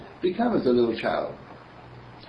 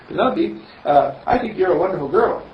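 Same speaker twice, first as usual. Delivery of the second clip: put-on higher, louder child's voice; little girl; 6 semitones higher, 5 dB louder than usual. Little girl compliments the girl next door, high and sweet. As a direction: tell her sweetly she's wonderful. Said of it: "she said".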